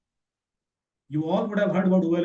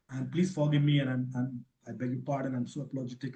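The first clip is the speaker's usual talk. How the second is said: fake apology; 3 semitones lower, 4 dB quieter than usual. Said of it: "very cool and calm".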